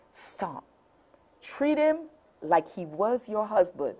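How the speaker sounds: soft, hushed voice of God; very quietly. Retold or imitated. God quietly telling her to stop, hushed. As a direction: say it quietly, like a still small voice. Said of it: "very quietly said to me".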